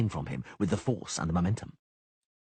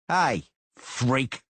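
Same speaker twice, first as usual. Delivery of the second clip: higher, louder jeering call; 5 semitones higher, 4 dB louder than usual. A narrator's reading. Cicada calling to Geralt, higher and louder jeer. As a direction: call out a taunt down the alley.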